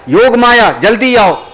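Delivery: high-pitched commanding call; urgent summons. Acted. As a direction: summon a helper in haste. Acted urgent summons at night. (ऊँची आवाज़ में तुरंत बुलाने का आदेश)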